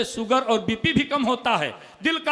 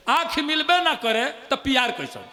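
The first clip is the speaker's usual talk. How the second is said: poem line. Acted. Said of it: "सुनिएगा".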